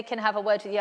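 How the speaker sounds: a hint of dread under the teacher's words; ominous teacher's request. Mother recalling the dreaded teacher summons, softly ominous. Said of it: "when they say".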